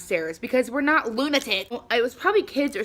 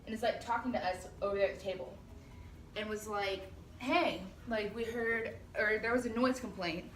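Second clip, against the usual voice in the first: quiet; 13 dB quieter than usual. Real, not acted. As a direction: keep it down while showing around. Showing the door, filming quietly.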